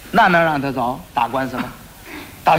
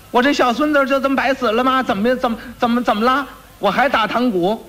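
higher voice of a distraught grandmother; old woman clamoring; 7 semitones higher than usual. Acted. Grandmother clamoring in the guardroom about her dead grandson, high distraught voice. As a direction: demand justice, wailing old lady. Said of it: "在这个班房里头嚷啊".

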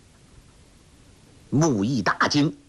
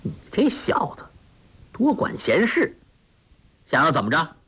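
dark threat; 5 semitones higher than usual. A narrator's reading. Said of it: "那公子脸色一沉".

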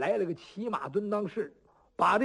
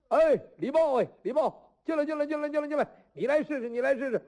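higher, beckoning call across a crowd; 6 semitones higher, faster than usual. Acted. Qi Guoyuan calling Li Bao in from the crowd, higher beckoning call. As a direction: wave him over, call out eagerly.

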